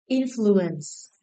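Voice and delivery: "Influence" with the opening syllable stressed; stress on first syllable. Shown as a demonstration. Teacher checking stress answers with class, first-syllable stress on "Influence". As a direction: lean on the "In" of "Influence". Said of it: "The first syllable".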